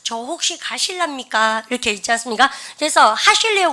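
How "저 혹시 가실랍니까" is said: polite request. Acted. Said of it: "respect language를 쓴다는 얘기는".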